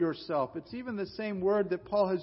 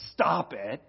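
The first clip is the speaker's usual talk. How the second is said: a mild, offhand stop it; flat dismissive; 4 semitones lower, 4 dB louder than usual. Retold or imitated. Pastor mocking a careless counselor's reply, mild offhand tone. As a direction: toss it off without care. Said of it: "I'm not gonna just sit and say".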